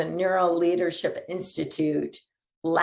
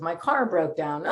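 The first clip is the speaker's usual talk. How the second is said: laughing. Retold or imitated. Laughter yoga example, laughing.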